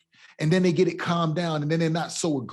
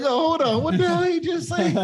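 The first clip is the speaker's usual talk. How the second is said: laughing, much higher mock shock; mock double take; 11 semitones higher than usual. Laughing at his host's joke, higher, in mock shock. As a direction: jump up in pitch like you can't believe your ears. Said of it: "I'm like".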